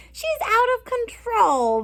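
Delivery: slow and high, like a giggly big sister; sister's voice. Acted. Sister Violet voiced laughing.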